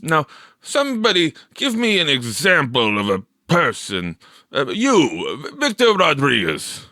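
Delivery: a hint of a portly teacher calling on a pupil; teacher's voice. A narrator's reading. Mister Lucas calling on Victor, lightly voiced.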